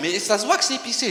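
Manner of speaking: normal talking voice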